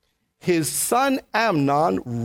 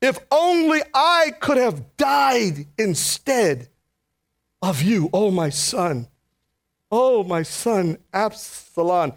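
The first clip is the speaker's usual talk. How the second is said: grieving lament; slower than usual. Acted. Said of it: "he cried".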